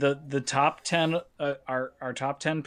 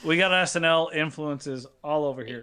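cigarette in mouth. Real, not acted. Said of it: "I'm gonna put a cigarette in my mouth".

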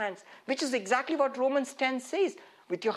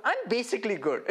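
smug colleague. Retold or imitated. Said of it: "You heard that?".

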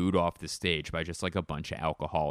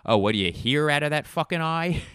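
higher, louder cutting retort; mock comedian comeback; 9 semitones higher, 6 dB louder than usual. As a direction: fire back the insult loudly. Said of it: "the comedian goes".

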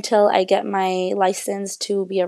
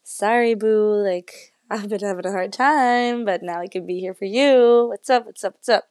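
bubbly greeting voice; 2 semitones higher than usual. Pretend. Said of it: "I'm just kinda like".

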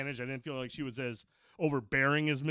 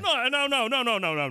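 higher, louder string of no; loud protest; 6 semitones higher, 4 dB louder than usual. Real, not acted. Protesting the glitch repeating.

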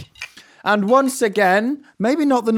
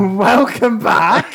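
excited welcome; 3 semitones higher, much slower than usual. Real, not acted. Hosts open the podcast.

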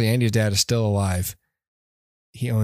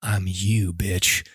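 lower, smug villain line; mock menacing reveal; 5 semitones lower, much slower than usual. Host voicing the villain taunting young Buzz. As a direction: drop the voice for a cocky reveal.

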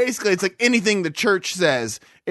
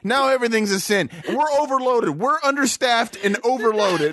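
higher, lightly voiced exasperated devil; mad devil; 5 semitones higher than usual. Devil griping about too many new sins, exasperated. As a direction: complain like an overworked devil, pitched up. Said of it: "You ever think the devil's mad".

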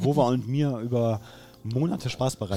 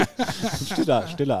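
laughing; 2 semitones higher, much slower than usual. Real, not acted. Joking about silent applause.

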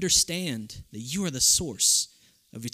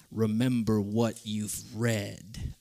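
lower, slow, distant booming father-king voice; Mufasa; 5 semitones lower, much slower than usual. Retold or imitated. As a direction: speak slowly like a lion king from the clouds. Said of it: "speaking like Mufasa did to Simba".

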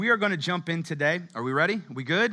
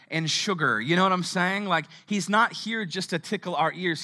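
louder, higher fired-up emphasis; fervent preaching; 4 semitones higher, 4 dB louder than usual. Real, not acted. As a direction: preach it with conviction. Preacher rising to emphatic point.

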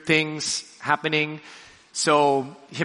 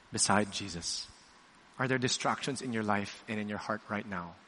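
soft; 4 semitones lower, 9 dB quieter than usual. Real, not acted. Intimate closing appeal.

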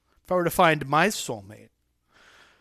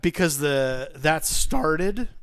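voice cracking; 4 dB louder, much slower than usual. Real, not acted. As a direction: voice cracks mid-sentence. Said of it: "my voice just cracked".

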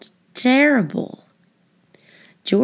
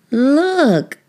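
higher, louder eager call; excited boy; 6 semitones higher, 4 dB louder than usual. A narrator's reading. Boy spotting the juggling monkey, excited call. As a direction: point it out with delight. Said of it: "a boy said".

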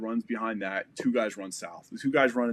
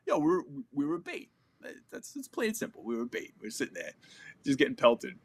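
high, indignant, then fading; fed up, spelling it out; exasperated; 3 semitones higher than usual. Retold or imitated. Complaining they were left as bait.

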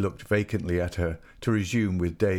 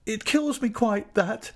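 high-pitched anguished plea; desperate, high-voiced shriek; slower than usual. A narrator's reading. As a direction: shriek it, begging them to stop. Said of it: "she shrieked".

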